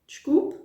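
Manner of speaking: "Desculpe" rising high like a question; asking someone to repeat with a rising "Desculpe"; questioning imperative. Shown as a demonstration. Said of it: "imperative with the intonation of a question".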